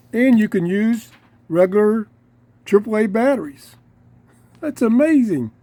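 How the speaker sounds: real excitement over a gadget; excited. Real, not acted. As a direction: marvel at the battery option. Excited about radio features.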